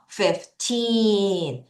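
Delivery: put-on Fifteen with a long, strong TEEN; fif-TEEEN, ending held; stress on TEEN. Shown as a demonstration. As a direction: stretch the second syllable of Fifteen. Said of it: "강하게 읽어주셔야 돼요".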